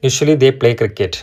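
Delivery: very slow, every word spaced out; slow dictation reading. Shown as a demonstration. Teacher rereading the example to students, very slowly. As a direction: spell the sentence out slowly for the class. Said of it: "teacher reads example sentence".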